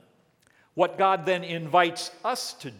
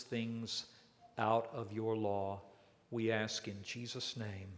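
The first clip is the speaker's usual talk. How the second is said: hushed, earnest pastoral prayer; 2 semitones lower than usual. Real, not acted. Pastor praying over the congregation before the sermon, hushed and earnest.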